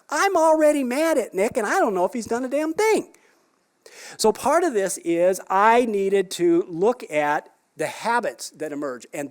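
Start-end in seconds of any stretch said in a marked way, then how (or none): 0.1-3.1 mock anger. Venting pre-emptive anger at husband.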